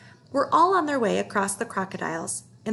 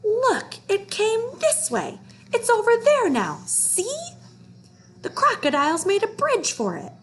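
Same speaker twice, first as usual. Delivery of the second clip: high, loud squealing boar voice; wild boar scream; 12 semitones higher, 4 dB louder than usual. A narrator's reading. Boar screaming at the crowd, high and loud. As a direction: squeal the alarm like a frantic boar. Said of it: "he heard a wild boar scream".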